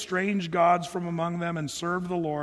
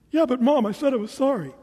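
high, loud mock kid complaint; imitating a child's insistent protest; 5 semitones higher, 5 dB louder than usual. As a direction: plead with Mom as an indignant kid. Voices a child protesting to Mom.

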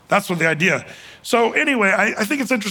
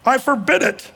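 forbidding; 4 semitones higher, 3 dB louder than usual. Retold or imitated. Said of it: "he forbids him".

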